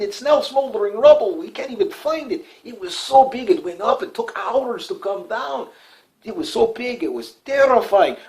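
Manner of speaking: high, slow, hammed-up Russian accent; mock Russian accent. Russians bragging about their nuke, high mock Russian accent. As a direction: play a boastful Russian in a put-on Russian accent. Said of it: "do the voice".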